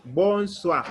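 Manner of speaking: "bonsoir" as bon-swakh; OI sounded as WA. Shown as a demonstration. Teacher applies the O I rule, WA sound. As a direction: say "bonsoir" carefully, with WA in it. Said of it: "we will pronounce it like wa".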